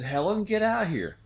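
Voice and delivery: high calling yell toward the kitchen; dad hollering for mom to come look at the sky. Retold or imitated. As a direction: call her outside, urgent and high. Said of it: "Dad yelled at Mom".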